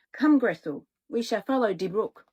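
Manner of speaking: lightly voiced boy with a German accent. Hansel leading his sister to the brook, light German accent. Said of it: "one that has an accent".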